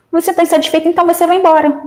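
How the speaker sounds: mock high-pitched dismissiveness; rude dismissal. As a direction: imitate a curt boss, pitched high. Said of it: "Do mesmo jeito que ela tratou as pessoas".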